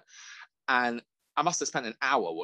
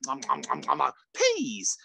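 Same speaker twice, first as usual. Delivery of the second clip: chomp, then proclaim the peas; mock eating noises; 2 semitones higher than usual. Mimicking the TikTok eater chomping, then shouting the food. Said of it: "He's like".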